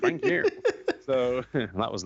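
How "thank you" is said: mock thanks. Sarcastic thanks to girlfriend.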